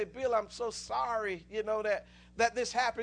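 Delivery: a touch of crying, slowed right down; tearful apology. Retold or imitated. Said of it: "started crying".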